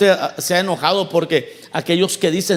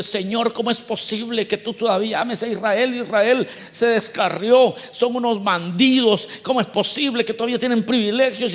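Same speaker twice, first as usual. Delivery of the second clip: complaining. Retold or imitated. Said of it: "él se está quejando".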